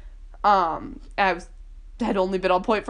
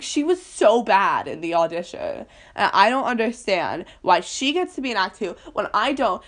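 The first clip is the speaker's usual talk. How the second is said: re-enacted indignant complaint, louder at the start; upset complaint; 4 dB louder than usual. Upset kid left out of Act Two, mock complaint. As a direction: mildly act out being upset. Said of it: "I was just really upset".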